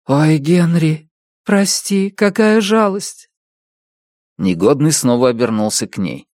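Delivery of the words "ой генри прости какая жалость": slow, gentle condolence; sympathetic. A narrator's reading. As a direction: comfort him tenderly. Sympathy to grieving man. (сочувственно)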